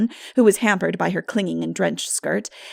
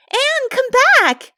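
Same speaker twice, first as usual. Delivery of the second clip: much higher, louder, slow shrieked call; 8 dB louder than usual. A narrator's reading. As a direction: shriek after her friend. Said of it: "shrieked the latter".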